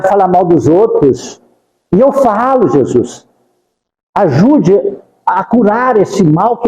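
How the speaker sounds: confessing sins to Jesus in prayer; model prayer. Shown as a demonstration. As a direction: pray it as an honest confession. (oração confessando os pecados a Jesus)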